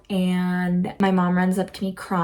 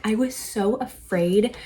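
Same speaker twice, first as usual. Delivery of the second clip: whisper; 3 semitones higher, slower than usual. Retold or imitated. Retelling her panic attack.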